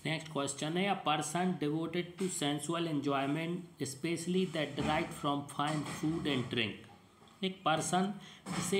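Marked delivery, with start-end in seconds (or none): 1.0-6.7 slow, word-by-word reading of the question; dictation pace. Shown as a demonstration. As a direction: read it out slowly so students can note it down. Reads quiz definition aloud. (धीरे धीरे dictation की तरह पढ़ें)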